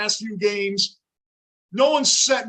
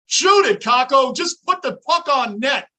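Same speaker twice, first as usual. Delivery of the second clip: shouting; 5 semitones higher, 6 dB louder than usual. Real, not acted. Yelling at players on TV.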